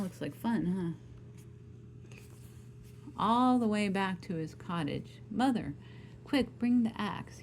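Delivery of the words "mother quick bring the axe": higher, urgent call for help; urgent cry. Acted. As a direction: call out to mother in a hurry. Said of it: "he cried".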